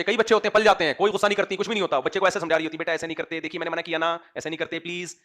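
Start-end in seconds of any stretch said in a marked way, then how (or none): 2.8-5.2 put-on soft, patient coaxing of a small child; a lightly voiced gentle mom; loving mother. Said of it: "बड़े प्यार से".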